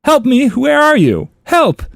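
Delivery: high-pitched mock cries for help; mock yelling. Owner searching for oddly named dogs, mock yell. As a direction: call out like someone searching, hammed-up. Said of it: "If I heard him yell out those names".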